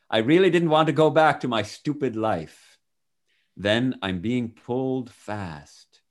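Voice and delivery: measured, expressive first-person storytelling; testimony read aloud. Acted. Reader shares a man's near-death account with listener, expressive reading. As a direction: read it out as a vivid account, phrase by phrase.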